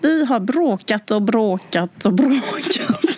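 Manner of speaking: put-on Gothenburg Swedish accent. Acting out a long-together couple talking to the speaker, in a Gothenburg Swedish accent. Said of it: "De pratar göteborgska".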